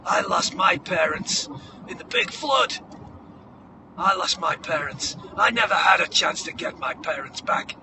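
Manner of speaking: lightly voiced old guy at the bar; earnest movie-mentor speech, lightly sent up; corny old barfly speech. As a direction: give a mildly hammy pep talk, with pauses. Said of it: "the corny speech that everyone at the bar gives".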